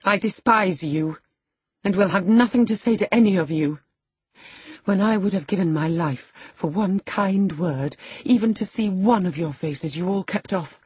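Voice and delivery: high-pitched, haughty indignation; scornful tirade. A narrator's reading. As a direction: reject them all with proud contempt. Lady's scornful tirade at the household.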